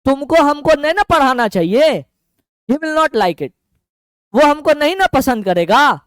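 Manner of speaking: lightly Bihari lilt with a coaxing ना; a mild Bihari tone, leaning on ना; Bihari-style Hindi. Retold or imitated. Teacher shows students how Bihari Hindi speakers phrase it. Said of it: "ऐसे हम बोलते हैं बिहारी में".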